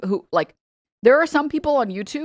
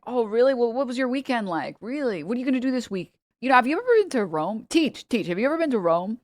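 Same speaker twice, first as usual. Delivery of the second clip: lightly raised, eager chatty student voice; student stalling the teacher; 5 semitones higher than usual. Retold or imitated. Student distracting the teacher with small talk, mock eager. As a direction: keep the teacher talking with bright fake interest. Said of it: "be like".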